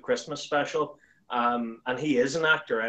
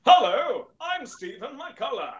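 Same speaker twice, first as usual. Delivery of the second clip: high, stretched-out TV announcer voice; Peter Dixon; 11 semitones higher, 5 dB louder, slower than usual. Acted. Greeting the announcer in his own voice, grand and drawn-out. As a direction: introduce yourself like a talent show voice-over. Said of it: "go up to him and go".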